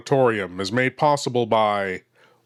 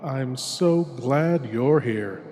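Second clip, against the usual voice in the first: hushed horror host; 3 dB quieter than usual. Acted. Horror host greets listener intimately.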